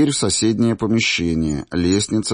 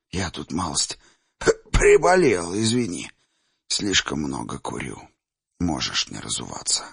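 put-on old man voice. Old seer Chimir speaks.

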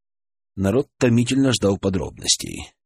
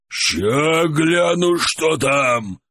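yelling back; 5 semitones higher, much slower than usual. Acted. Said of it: "проорал в ответ кузнец".

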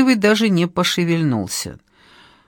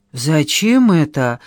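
wary; 2 semitones lower, slower than usual. Acted. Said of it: "опасливо осведомился".

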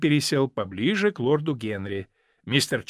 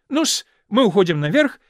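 hostess calls back, a bit louder; lightly raised parting call; old lady calls to men from doorway, louder; 6 semitones higher, 5 dB louder than usual. A narrator's reading. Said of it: "крикнула леди Нарбора с порога".

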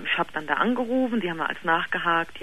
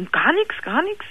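father denying; 11 semitones higher, 3 dB louder, slower than usual. Retold or imitated. Father's denial voiced in story.

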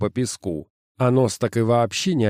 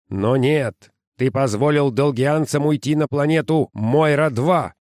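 angry boss; 4 semitones higher than usual. Acted. Boss scolding Sims.

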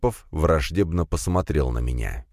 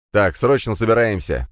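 shouting; 4 semitones higher, 4 dB louder than usual. Acted. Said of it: "крикнул я".

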